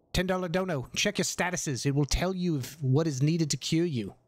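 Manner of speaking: lightly put-on Australian accent; a hint of Australian in the voice. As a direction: slip into a casual Australian accent. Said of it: "I just gave you an Australian accent".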